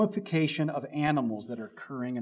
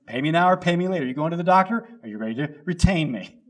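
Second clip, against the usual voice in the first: pushy lawyer pitch; 3 semitones higher, 6 dB louder, faster than usual. Retold or imitated. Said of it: "the lawyer said".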